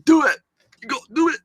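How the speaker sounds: root for him to land it; urging on. Retold or imitated. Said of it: "You kinda like".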